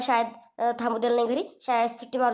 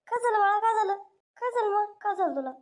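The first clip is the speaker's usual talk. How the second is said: higher, worried mother's voice; fussing mother; 8 semitones higher than usual. Acted. Mother rushes to her son's bellyache, higher worried coaxing. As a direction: coo over the sick child like a fretting mom.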